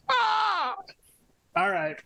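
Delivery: high, glitchy robot yelp. Acted. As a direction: sound like a malfunctioning robot. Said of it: "It was him doing a robot voice".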